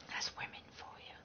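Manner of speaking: breathy aside under the breath; whisper. Real, not acted. Streamer muttering to chat about the woman, whispered. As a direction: let it slip out as a secret whisper.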